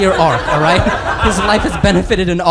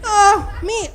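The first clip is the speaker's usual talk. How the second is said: surprised squeak. Acted.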